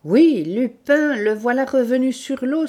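loud, slowed, high-pitched cry; agitated exclamation. A narrator's reading. Same startled exclamation continues.

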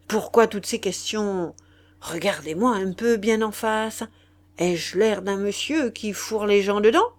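marquis faussement offensé, ton solennel; changement de ton. Acted. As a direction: jouer la dignité blessée du gentilhomme. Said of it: "changement de ton". (léger ton outré du marquis)

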